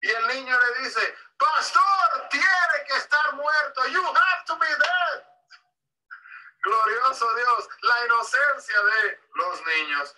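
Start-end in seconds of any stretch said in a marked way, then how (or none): 1.4-5.3 put-on five-year-old answering. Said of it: "un niño de cinco años".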